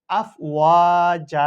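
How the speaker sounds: আফ ওয়া জা with the final a stretched one alif; pausal stop with long a. Shown as a demonstration. Teacher shows the waqf on আফওয়াজা. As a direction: hold the last a of জা briefly. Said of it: "এভাবে পড়ব".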